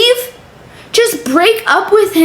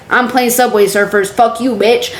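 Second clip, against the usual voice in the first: low, unbothered retort; imitated calm; 5 semitones lower than usual. Imitating the boyfriend's reply to the cheater, calm and low. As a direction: toss the insult off calmly, low. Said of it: "he was so calm".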